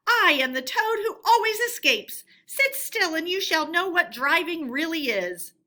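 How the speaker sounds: high, loud bragging cry; boastful Toad. A narrator's reading. Toad bragging to passengers, loud and high. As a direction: crow with reckless pride.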